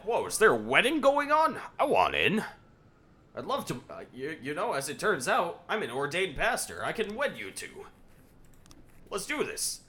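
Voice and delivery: high, excited goofy officer voice; eager goofy Cecil. Retold or imitated. Player voicing officer Cecil crashing the wedding, hammed-up eager. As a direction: gush like a clueless volunteer pastor. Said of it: "He shows up and is like".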